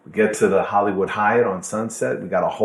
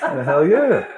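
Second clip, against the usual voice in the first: higher, louder laughing "hell yeah"; real laughter, louder; 6 semitones higher, 5 dB louder, slower than usual. Real, not acted. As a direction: crack up at the memory.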